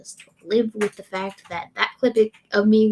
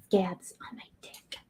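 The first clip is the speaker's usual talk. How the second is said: whisper; 2 semitones lower, 11 dB quieter than usual. Pretend. Whispered lyric line.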